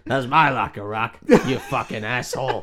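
put-on American trainer voice; Mickey. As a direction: insult him like a grumpy boxing coach. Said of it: "That's how Mickey talks".

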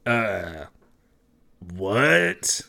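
slow, puzzled what rising at the end; dumbfounded, hesitant reply; baffled bouncer. Acted. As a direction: react in confusion to an odd claim. Bouncer baffled by odd claim.

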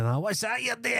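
very high, swooping mock Scottish voice; pry in a high, caricatured voice; nosy Scottish beggar. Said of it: "he's a Scottish guy".

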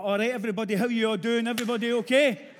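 loud, high Glasgow greeting to the whole room; a preacher booming a cheery hello, rough edges kept. Retold or imitated. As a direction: call out to the crowd in his own rough accent. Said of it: "Don't lose your rough edges".

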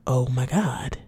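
whispered, stunned exclamation; hushed relief. Real, not acted. Speaker taking in her new discovery, hushed relief. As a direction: let it out softly, almost voiceless.

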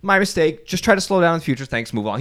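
wife's husband voices the ideal cop; polite cop. Retold or imitated. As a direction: play a hint of a kindly officer letting it slide. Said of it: "the cop could have said".

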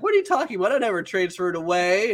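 very high imitated girl's denial; high mock disbelief; acted incredulity. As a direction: mimic a baffled, indignant classmate. Asakura denies it, acted quarrel.

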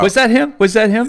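high, loud, eager double question; excited high-pitched interruption. Real, not acted. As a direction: blurt it out high and loud, amused. Laughing interjection about the guest actor.

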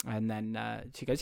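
normal talking voice

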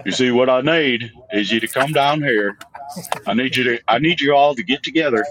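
a hint of a Boston accent on a mock TV therapist; Boston Doctor Phil. Co-host asked for a Boston Doctor Phil, lightly done Boston accent. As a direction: lean into Boston vowels while soothing the room. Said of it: "I think Boston Doctor Phil would be great".

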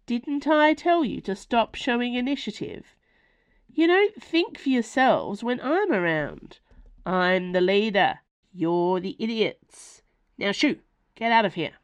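Ma scolding her werewolf sons, loud and exasperated; scolding mother. Acted. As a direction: tear a strip off them.

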